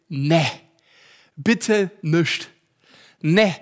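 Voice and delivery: a hint of pleading refusal; inner voice refusing. Pastor voicing his pride pleading, lightly. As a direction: groan out a reluctant no. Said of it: "mein Stolz ... sagte".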